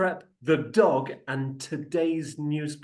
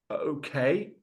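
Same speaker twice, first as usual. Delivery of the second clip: whispered. Retold or imitated. Rep reacts to the denial.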